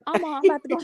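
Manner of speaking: imitating Amora on the phone. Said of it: "here go Amora, y'all".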